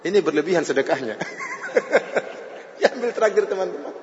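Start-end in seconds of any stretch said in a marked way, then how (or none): 1.2-2.6 a short high burst of real laughter; amused laugh. Real, not acted. Preacher laughing at his own joke, a light high laugh. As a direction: laugh at the joke about generosity.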